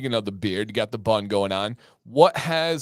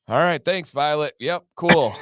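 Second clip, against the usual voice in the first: sarcastic retold thanks, pitched up; falsely agreeable, slightly higher; mock thanks; 3 semitones higher, 4 dB louder than usual. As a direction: play a dad pretending to take the insult well. Dad's mock thanks for insult.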